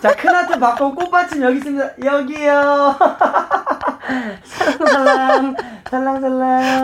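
cute playful giggling aegyo; breathy cutesy giggly. Acted. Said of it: "막 애교쟁이가 될 수밖에 없네".

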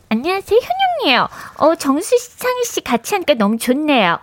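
high nasal cutesy celebrity voice; Hyun-young impression. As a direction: squeeze it through the nose, sweet and high. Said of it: "이게 코맹맹이 소리 나면".

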